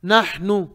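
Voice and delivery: नहनु with ha drawn from inside the throat; deep throat ha. Shown as a demonstration. Teacher shows students the letter, deep throat ha. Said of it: "हा अंदर से निकालेंगे".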